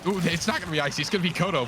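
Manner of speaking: voice crack. Real, not acted. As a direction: voice cracks on excited call. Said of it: "Voice crack, by the way".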